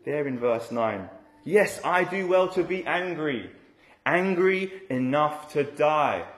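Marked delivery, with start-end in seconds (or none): 1.4-6.2 a mild mock of angry Jonah, pitched higher; angry reply. Jonah answering God back, a touch of understated anger. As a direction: lift the pitch, then slow on angry enough to die. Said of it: "You can hear the anger in his voice".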